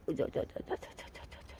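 low, soft string of stuttered syllables; rapid stutter noise. Real, not acted. Gardener fussing over the flowers, quick wordless sputter. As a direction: sputter a quiet run of nonsense syllables.

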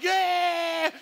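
high, loud whooping yeah; loud high thrilled whoop; excited shout. Retold or imitated. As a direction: cheer like thrilled teenagers on the drop. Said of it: "like, shouting".

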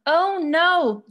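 big-emotion outcry, kept classroom-safe; yelled exclamation. A narrator's reading. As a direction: raise the voice as in a read-aloud yell. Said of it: "Jean yelled".

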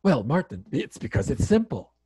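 light imitation of a Germanic accent. Elizabeth explains to Martin, imitated Germanic accent. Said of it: "in her Germanic accent".

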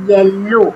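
येलो echoed with a held l; repeated model word. Shown as a demonstration. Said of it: "पहला शब्द है". (येलो फिर से दोहराएँ)

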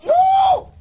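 very high, loud drawn-out cry; horrified shout. Real, not acted. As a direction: scream it in dismay. Greenhouse burning in game. (grito agudo de horror)

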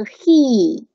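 "he" with a held ee vowel; long HE. Shown as a demonstration. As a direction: draw out the vowel of "he". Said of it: "长读是he". ("he"长读)

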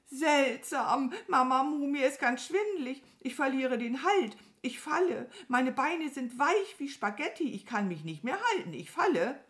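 high, loud panicky bird voice; high-pitched mounting alarm; dizzy, panicking crow. Acted. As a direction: rattle it out as a crow losing its grip.

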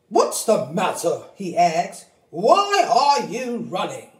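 a turkey's lightly puzzled voice; Turkey Lurkey voice. Acted. Turkey Lurkey asking the running birds, lightly puzzled. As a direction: ask what's wrong.

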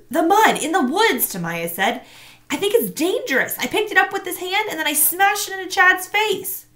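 almost crying, push it out; frightened girl. A narrator's reading. Girl fears the mud is dangerous, near tears.

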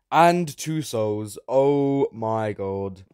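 slow, drawn-out loud awe; stretched excited gasp; amazed. Real, not acted. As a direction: savour each word in wonder. Soul count rises.

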